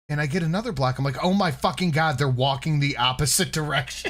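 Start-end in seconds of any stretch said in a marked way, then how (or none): 1.2-4.1 raised, louder outburst breaking into laughter; amused astonished realization. Retold or imitated. Telling how he realized the walker faced away, astonished and laughing. Retold sudden realization while drunk.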